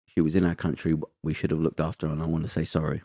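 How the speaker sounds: soft, understated hint of a voice breaking; retold breaking voice. Quoting the prime minister apologising on camera, mildly breaking voice. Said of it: "and you hear her voice break".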